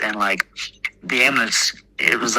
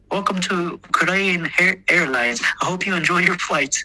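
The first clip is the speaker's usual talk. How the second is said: high, sing-song airline greeting; flight attendant voice; 7 semitones higher than usual. Retold or imitated. Helicopter crewman greeting the patient, mock airline voice. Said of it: "He's like".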